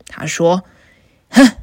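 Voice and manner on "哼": lower, gruff troll threat; a bullying troll, lightly lowered; big troll. Acted. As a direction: growl it like a hungry troll. Troll threatens first goat.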